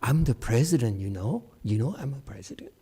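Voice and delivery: lightly voiced smug president; a hint of a self-assured president, quick at the end; president impression. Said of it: "this is my impression".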